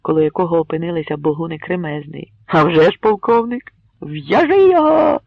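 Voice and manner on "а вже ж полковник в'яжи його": high loud rough mob voice; crowd shout. Acted. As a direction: bark out the order to seize him. Mob demands binding colonel.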